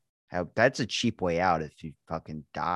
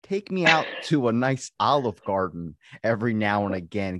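ordinary talk

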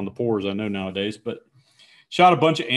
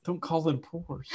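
whisper yelling; 4 semitones higher, 9 dB quieter, slower than usual. Retold or imitated. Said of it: "when you friggin' whisper it to me".

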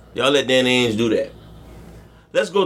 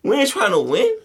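mock team executive; 6 semitones higher than usual. Mocking the Jazz front office.

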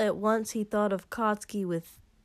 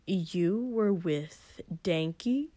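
dangerous question; much slower than usual. Acted. Katsuki learning about Denki, slow menacing question. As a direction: let each word land with sudden threat. Jealous lover turning dangerous.

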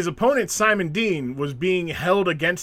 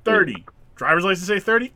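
louder, pointed questioning; mock interrogation; 2 semitones higher, 4 dB louder than usual. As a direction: grill him like a skeptical official. Mocking a liar at registration.

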